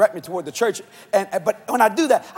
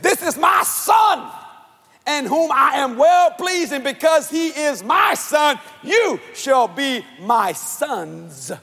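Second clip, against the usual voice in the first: voice of God; 3 semitones higher, slower than usual. Retold or imitated. Voicing God the Father proclaiming.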